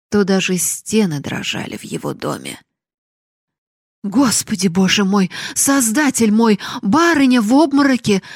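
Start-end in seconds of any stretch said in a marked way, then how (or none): 4.0-8.2 high, loud, alarmed cry; panicked cry. Acted. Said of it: "закричала вбежавшая Нанетта".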